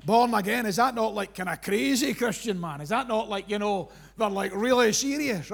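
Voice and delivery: a casual skeptic scoffing at born again; mocking skeptic. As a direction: scoff at it like a cynic. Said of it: "and they say, like".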